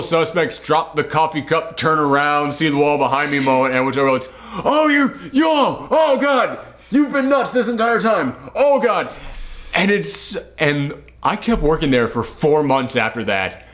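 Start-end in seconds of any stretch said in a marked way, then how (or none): 4.6-9.1 high-pitched dawning alarm; acted shocked realisation. Employee realising his boss is nuts, acted high-pitched shock. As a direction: exclaim it as the truth suddenly hits.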